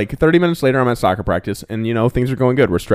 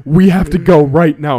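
higher and louder, pressing orders; retold urgent yelling; 8 semitones higher, 5 dB louder than usual. Telling dad to start the car now, urgent yelling. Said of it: "I'm literally yelling at him".

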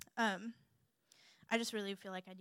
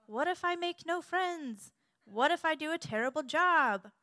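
higher-pitched, mock-anxious fretting; worried excuses; 7 semitones higher, 5 dB louder than usual. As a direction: fret out your excuses in a raised voice. Voicing listener's worried excuses.

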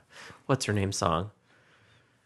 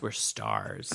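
whispered; 10 dB quieter than usual. Pretend. Whispered joke line.

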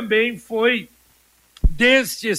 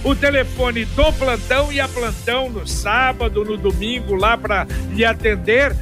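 upbeat radio ad read; hard sell ad. Acted. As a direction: sell it with punchy enthusiasm. Live radio ad read over music.

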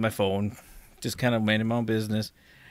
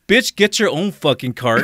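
mock snap back; 4 semitones higher, 5 dB louder, slower than usual. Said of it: "I'm like".

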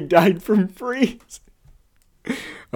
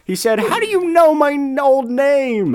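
high excited storybook voices; squeaky story voices; 11 semitones higher, 5 dB louder than usual. Acted. Reader voices the monsters and Ron, high-pitched.

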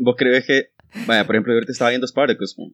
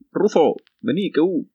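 slower, higher call to a pet dog; 6 semitones higher, slower than usual. Retold or imitated. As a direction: call Rufo over from across the room. Calling a dog.

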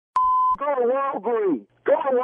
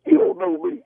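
don't cry with me; 5 semitones higher than usual. Real, not acted. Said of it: "Don't cry with me, man".

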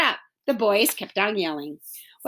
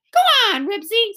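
high, loud urging yell; acted scream to urge on the dog; mock scream; 10 semitones higher, 4 dB louder, faster than usual. A narrator's reading. Beezus urges Ribsy on toward Henry, screaming. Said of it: "screamed Beezus".

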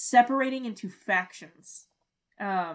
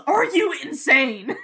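loud, drawn-out retold yell; mock yell; 4 semitones higher, 7 dB louder, slower than usual. Retelling Jack confronting Locke at gunpoint, mock yell. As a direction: imitate an incredulous yell, stretching it out. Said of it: "And Jack just yells".

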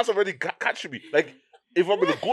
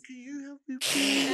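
put-on baby voice; 3 semitones higher, 5 dB quieter, slower than usual. Shown as a demonstration. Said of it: "Give me an example".

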